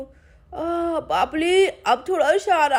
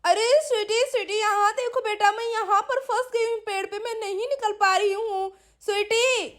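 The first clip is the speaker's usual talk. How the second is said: lightly raised call for help; 4 semitones higher than usual. Acted. Stuck aunt calling to Sweety from the tree, calling out. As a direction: call up to catch the child's attention. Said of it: "चलो मैं फिर से आवाज़ लगाती हूँ".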